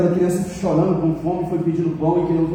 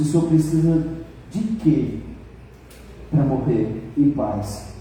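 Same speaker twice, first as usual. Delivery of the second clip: tearful; 3 semitones lower, slower than usual. Acted. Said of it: "com lágrimas".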